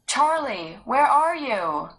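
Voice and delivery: loud, high, slow call. Acted. Sarah calling to her missing brother, loud slow call. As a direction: ask into the woods for him.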